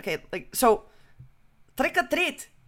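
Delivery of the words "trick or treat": very high, put-on Irish accent. Trying the Irish accent a second time, attempted Irish accent. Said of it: "let me try it again".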